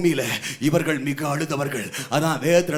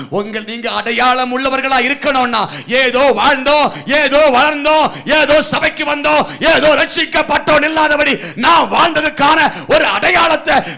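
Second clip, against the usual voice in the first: shouted preaching; 8 semitones higher, 11 dB louder than usual. Acted. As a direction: drive it up to a long drawn shout. (நீட்டி முழங்கும் உச்சக் குரல்)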